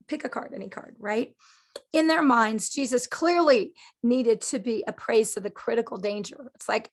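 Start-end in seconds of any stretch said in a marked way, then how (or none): none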